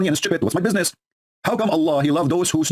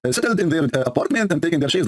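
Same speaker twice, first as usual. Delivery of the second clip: worried plea; 5 semitones higher than usual. Acted. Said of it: "The guy is worried".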